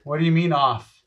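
distant, robotic mic sound; 터널 속 울리는 목소리; tunnel echo. Real, not acted. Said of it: "You sound like a robot".

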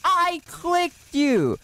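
high, slow panicked shouting; scared horror game streamer. Real, not acted. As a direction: shriek in terror and dismay. Jumpscared, panics.

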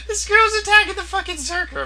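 high laughing voice. Real, not acted. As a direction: laugh through it. Laughing at funny attack.

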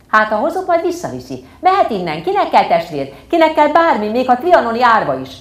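high, loud tantrum yell; furious yelling. Acted. Girl yelling at her parents to send the orphan away. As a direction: hurl each phrase in a rage. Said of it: "Tovább ordítottam".

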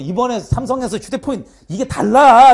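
loud mock insistence breaking into laughter; laughing imitation. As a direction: imitate mother's excuse, amused. 어머니 변명을 웃으며 흉내. (엄마 흉내 내며 웃음 섞어 크게)

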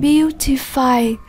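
"Beautify" drawn out slowly, stress on "Beau"; first-syllable stress. Shown as a demonstration. Teacher models "Beautify" for the class, slow, stressing its first syllable. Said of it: "Nhấn âm tiết số một".

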